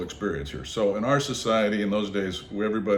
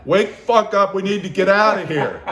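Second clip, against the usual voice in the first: louder, higher urgent wake-up yell; urgent shout; 9 semitones higher, 8 dB louder than usual. Retold or imitated. Waking his tentmate Jimmy in alarm, shouting urgently. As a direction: yank him awake.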